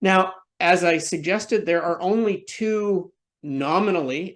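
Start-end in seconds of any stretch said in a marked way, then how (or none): 3.4-4.3 nominally lifted and set apart, slightly raised pitch; stress on nominally. Real, not acted. Presenter to webinar audience doubting progressive pages, stressing nominally. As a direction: lean on nominally with a sceptical edge. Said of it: "and I emphasize the word nominally".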